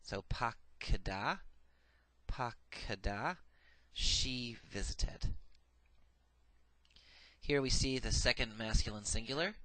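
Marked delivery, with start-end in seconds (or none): 0.0-3.4 "pakada" said slowly, accent on the last syllable, each syllable clear; Hebrew pronunciation demo. Shown as a demonstration. Teacher modelling the Hebrew form for students, slow and clear. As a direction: spell out "pakada" syllable by syllable, unhurried. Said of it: "The comma's under the dalet is added".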